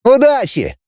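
high farewell shout; parting yell. A narrator's reading. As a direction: call good luck after them. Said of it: "крикнул Кэссиди".

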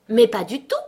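loud, indignant denial; angry exclamation; furious tone. A narrator's reading. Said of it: "d'un ton furieux".

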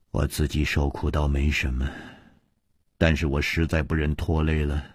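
a touch of despair in a sick woman's voice; lightly sad, subdued confession; gloomy and low. Acted. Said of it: "柳无梅黯然道".

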